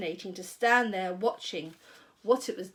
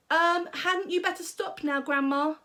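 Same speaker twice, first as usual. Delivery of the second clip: put-on higher, worried boy pleading; boy's voice; 6 semitones higher than usual. A narrator's reading. George worried as Grandma grows. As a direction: fret as young George.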